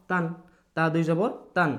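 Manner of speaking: তান said as "taan" ending in a clear n; tanween demo. Shown as a demonstration. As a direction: show তান for the class with its final n. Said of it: "কি হবে?". (তান স্পষ্ট ন দিয়ে)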